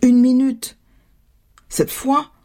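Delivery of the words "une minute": mother mimicking a child's high put-off; mimicked child's reply. Fed-up mother quotes her daughter's usual answer, mimicking. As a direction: mimic a child calling back, lightly. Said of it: "toujours l'entendre répondre".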